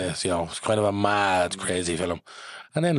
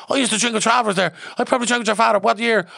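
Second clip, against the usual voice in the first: much higher and louder, eager reminiscing; animated director; 7 dB louder than usual. Retold or imitated. Director telling John he drank with his father. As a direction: share the old memory gladly. Director recalls drinking in London.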